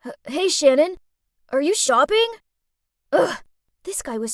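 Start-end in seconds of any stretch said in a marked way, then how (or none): 0.1-2.4 put-on stammering, louder, nervous boy. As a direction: stumble over the greeting, flustered. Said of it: "nervously itched ... spluttered out".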